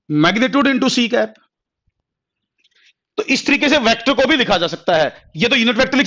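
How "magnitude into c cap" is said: "magnitude into B cap" said very slowly; slow dictation. Shown as a demonstration. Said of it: "क्या लिख सकते हो". (उत्तर बहुत धीरे धीरे लिखवाना)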